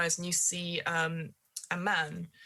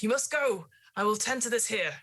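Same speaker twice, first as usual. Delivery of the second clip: put-on higher, firm old gardener ordering; urgent gardener; 5 semitones higher, 3 dB louder than usual. Gardener telling Mother to go, firm and urgent. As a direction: send her away firmly. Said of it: "as much as like".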